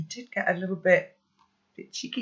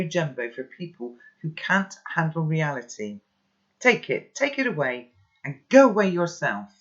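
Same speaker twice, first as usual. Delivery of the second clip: mocking, raised voice; scornful anger; 4 semitones higher, 4 dB louder than usual. Boy scorning grandpa's wisdom, angry. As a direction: sneer and shove him away.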